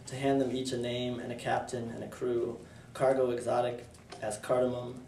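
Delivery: measured, even poem recitation; poetry reading. Acted. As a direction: read it as verse, pausing between phrases. Reads own poem aloud.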